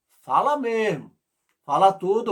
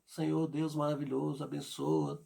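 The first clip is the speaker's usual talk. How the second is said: soft, lower, churchy formal prayer; stiff formal prayer; 4 semitones lower, 12 dB quieter than usual. Retold or imitated. Preacher mimicking a believer's formal prayer, soft and stiff. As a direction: recite it politely and hollowly. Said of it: "aquela oração bem formal".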